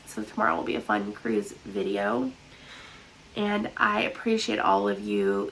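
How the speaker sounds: blocked-nose nasal voice. Real, not acted. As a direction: talk through a stuffy nose. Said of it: "Sorry about my nasally voice".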